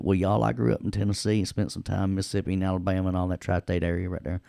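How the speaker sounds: put-on quick, folksy Southern accent. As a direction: rattle it off in a Southern twang. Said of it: "that Southern accent".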